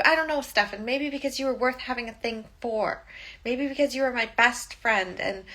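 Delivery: a hammed-up furious best friend, cooling by the end; retold angry rant. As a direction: replay her outburst, heated and half-acted. Caroline ranting at Stefan.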